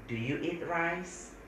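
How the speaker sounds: very slow, careful English; slow model sentence. Shown as a demonstration. Teacher slowly models the question. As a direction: spell out the example slowly for students. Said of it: "makan, eat".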